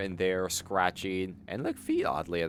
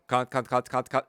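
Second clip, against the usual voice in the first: British can't; 3 semitones higher, 6 dB louder than usual. Retold or imitated. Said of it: "Kant sounds a little different with this accent".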